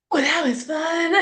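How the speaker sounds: mock-cheerful squeak, drawn out. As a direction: play brave after a rejection, very high and slow. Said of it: "raised a couple notches".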